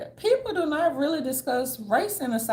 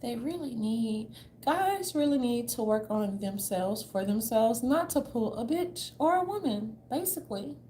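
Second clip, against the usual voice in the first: mocking preachy women; 4 dB quieter than usual. Mocking women online lecturing about guys, preachy. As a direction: parody a self-righteous advice giver. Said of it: "they be talking like this".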